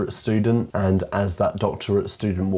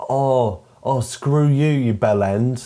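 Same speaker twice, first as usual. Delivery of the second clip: mildly indignant acted outburst; mock angry; 3 semitones higher, slower than usual. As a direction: play at being cross, without full force. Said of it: "she gets all angry".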